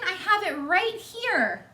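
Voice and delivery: very high, sweet little-sister voice; eager Baby Lincoln. Acted. Baby Lincoln bringing milk to the piglet, very high and eager. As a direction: proudly present the bottle.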